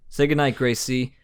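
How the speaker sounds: deadpan flat one-liner; Tobey Maguire monotone. Retold or imitated. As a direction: toss it off in a monotone. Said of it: "very monotone voice acting".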